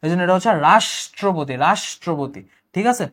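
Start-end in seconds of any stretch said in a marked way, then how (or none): 0.7-2.4 রাষ্ট্রপতি with a held "sh"; palatal sh. Shown as a demonstration. Teacher repeating the rule, রাষ্ট্রপতি with sh. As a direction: say রাষ্ট্রপতি as "raash-tro-poti". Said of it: "উচ্চারণ তালব্য স হবে".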